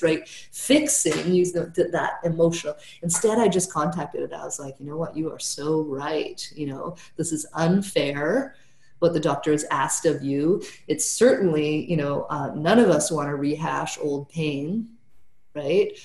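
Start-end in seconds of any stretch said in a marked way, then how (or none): 4.8-10.6 gentle validation. Retold or imitated. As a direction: ease her down, you're on her side. Therapist validating her angry client.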